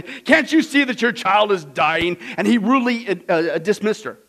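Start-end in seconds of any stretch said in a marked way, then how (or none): 0.0-2.2 a hint of a harsh doctor, slowed; mild harsh reply to the mother. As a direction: retell the doctor's curt rebuke.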